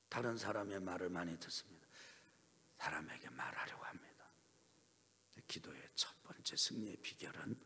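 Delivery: hushed whisper to the congregation; soft unvoiced whisper. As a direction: lean in and whisper it. Preacher drops to whisper.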